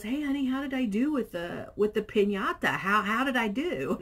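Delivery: husband voice. Retold or imitated. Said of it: "he goes".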